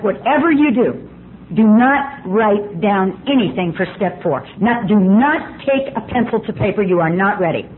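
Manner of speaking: slow, word-by-word "do not"; emphatic warning. Retold or imitated. Sponsor warning newcomer off step four, slow and emphatic. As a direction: punch each "not" in a measured caution.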